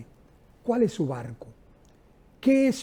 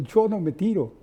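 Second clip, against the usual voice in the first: laughing refusal. Retold or imitated. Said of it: "le dije".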